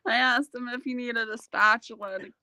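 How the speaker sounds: talking through real laughter; can barely get the words out for giggling; laughing. Real, not acted. Wife giggling through a joke about her husband.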